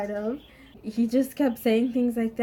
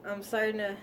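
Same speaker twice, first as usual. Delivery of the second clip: softer, settling self-talk; calming down; 2 semitones lower, 5 dB quieter than usual. Retold or imitated. Student talking himself down after being scolded, calming. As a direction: soothe yourself, easing off quietly. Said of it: "I start calming down".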